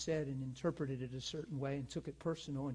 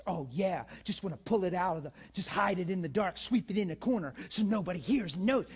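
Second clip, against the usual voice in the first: louder, higher sarcastic imitation of the accuser; mocking offended woman; 3 semitones higher, 6 dB louder than usual. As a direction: mimic her as a sneering accuser.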